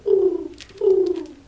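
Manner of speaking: high loud hooting; hooting bird. Acted. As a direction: hoot out like an owl. Reader voices birds.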